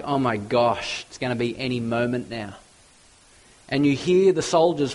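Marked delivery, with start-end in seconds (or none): 0.0-2.5 softer and fast, a frightened whisper of a thought; hushed dread. Retold or imitated. Prisoner Barabbas murmurs in dread as the mob shouts, softly. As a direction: rush it under your breath in dread. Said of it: "And you're like".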